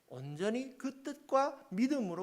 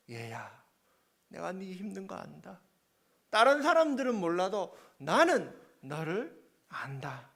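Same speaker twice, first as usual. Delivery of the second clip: comforting God. Retold or imitated. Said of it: "위로해 주시는 거예요".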